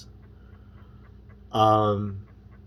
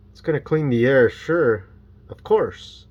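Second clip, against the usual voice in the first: sarcastic; 4 semitones higher, 5 dB louder than usual. Real, not acted. Mocking the clean-air claim.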